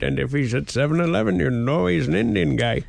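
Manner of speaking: mock Indian accent. Teasing co-host about the screenwriter, mock Indian accent. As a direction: put on a comic Indian accent. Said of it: "if you're just doing the Indian voice".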